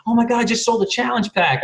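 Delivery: imitating his wife's excited squeal. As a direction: squeal it like she just won. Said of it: "she started jumping up and down, freaking out".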